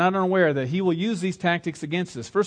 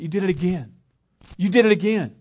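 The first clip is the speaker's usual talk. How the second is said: accusing; 2 semitones higher, 6 dB louder than usual. Acted. Voices Satan's accusing thoughts, repeated harder.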